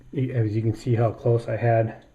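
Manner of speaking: talking around an object in mouth; mouth full. Real, not acted. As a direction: speak with something held in the mouth. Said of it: "I got my, uh, cleaning bottle in here".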